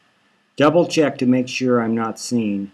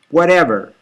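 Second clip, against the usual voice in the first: higher, louder one-word retort; tearful snap; 4 semitones higher, 6 dB louder than usual. Acted. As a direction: cut him off through tears. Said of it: "She's sniffling".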